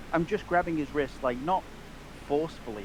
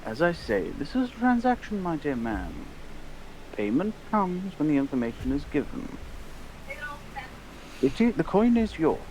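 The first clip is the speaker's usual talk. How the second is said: politely pressing, with lifted emphasis; lightly voiced formal negotiator; insistent gentleman customer; 3 semitones higher than usual. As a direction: insist courteously, pitch swinging up then settling. Player presses shopkeeper in character.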